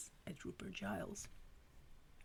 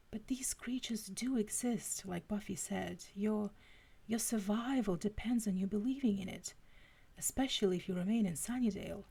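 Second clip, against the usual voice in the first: earnest, lightly British voice; Giles's British accent; 2 semitones higher than usual. Acted. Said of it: "It had to be the accent".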